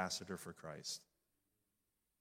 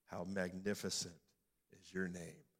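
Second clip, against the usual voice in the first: hushed prayer; 3 semitones lower than usual. Real, not acted. Prayerful psalm fading out.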